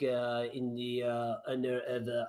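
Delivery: ordinary talk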